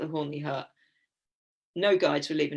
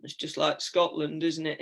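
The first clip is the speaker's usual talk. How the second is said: put-on a touch of dour, understated English accent; 2 semitones lower than usual. Climbers answering the Swiss guide, dour English accent. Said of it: "in our dour English accents".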